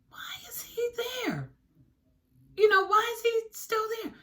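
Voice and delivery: hushed, wary whisper to herself; suspicious whisper. Retold or imitated. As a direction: whisper it like you're peeking through the blinds. Suspicious thoughts about parked car.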